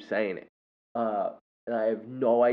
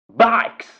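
sudden high, explosive shout; imitated prison guard yell; 13 semitones higher, 12 dB louder than usual. Prisoner yells at a kid in Scared Straight, high shouted outburst. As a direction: bellow one word like an outraged prisoner. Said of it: "but the way that he says it".

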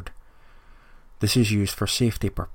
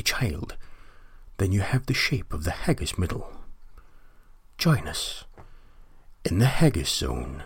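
put-on Uncle Rod's accent. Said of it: "whose accent I will now try and do".

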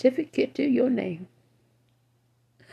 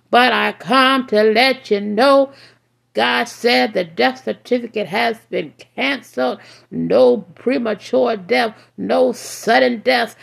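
fiery, rising street sermon; doomsday street preacher; 3 semitones higher than usual. Acted. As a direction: preach it hard, warning the wicked. Preaching at full force.

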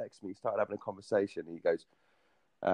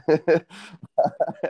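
loud high laugh; loud amused laugh; 10 semitones higher, 8 dB louder than usual. Real, not acted. Laughing after finishing story.

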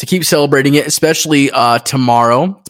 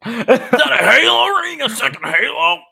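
stoned; 13 semitones higher than usual. Retold or imitated. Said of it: "I was like".

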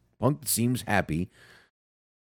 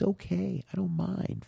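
sing-song high, lifting at the end; bright mock-innocent lilt; high rising tease; 11 semitones higher, 7 dB quieter than usual. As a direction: toss it up playfully like a catchphrase. Opening catchphrase to listeners.

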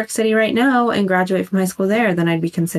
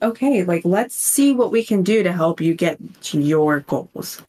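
mock guidance counselor. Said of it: "as a guidance counselor".

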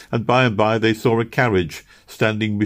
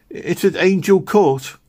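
put-on slow, high childlike answer; 12 semitones higher, 4 dB louder than usual. A narrator's reading. Meg tells Missus Blossom where they live, slow answer. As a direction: say the address carefully.

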